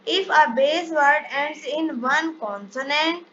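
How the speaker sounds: reads the English rule out very slowly, word by word; measured classroom dictation. Shown as a demonstration. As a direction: spell out the rule slowly for students to copy.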